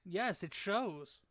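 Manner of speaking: slow drawn-out teasing. Real, not acted. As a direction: drag it out to tease her. Teasing wife.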